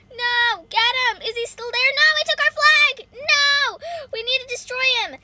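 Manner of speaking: high, loud game alarm; urgent yelling. Real, not acted. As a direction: shout frantic orders at teammates. Flag stolen, yelling orders.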